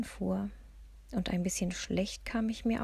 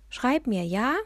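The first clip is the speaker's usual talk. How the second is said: louder, higher call, rising at the end; calling after someone; 4 semitones higher, 5 dB louder than usual. A narrator's reading. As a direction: call after a departing friend. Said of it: "rief ich ihr hinterher". (hinterhergerufen, laut und hoch)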